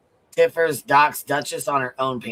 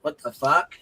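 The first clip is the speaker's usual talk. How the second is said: straining while twisting a jar lid; opening a stuck jar. Real, not acted. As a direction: talk while struggling with a jar. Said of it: "I'm trying to open this jar".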